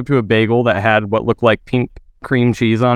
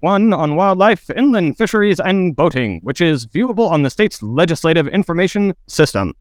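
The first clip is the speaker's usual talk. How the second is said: newscaster voice; 3 semitones higher than usual. Pretend. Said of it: "In the newscast".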